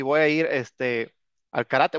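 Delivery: drawn out and hesitant; slow, unsure phrasing; slowed, halting. Shown as a demonstration. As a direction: stretch it slowly with a pause. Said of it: "pero lo correcto es".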